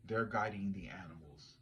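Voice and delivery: hushed, secretive whisper; spooky whisper. Acted. Psychic whispering to the camera, spooky whisper. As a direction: breathe it like a dark secret.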